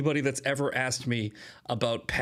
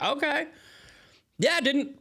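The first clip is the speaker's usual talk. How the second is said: mock acquiescence; 12 semitones higher than usual. Acting out feigned surprised acquiescence.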